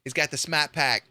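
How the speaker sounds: fumbling imitation of a Boston accent; halting, clumsy Boston accent; attempted Boston accent. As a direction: try and fail at Boston speech. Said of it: "I can't do it".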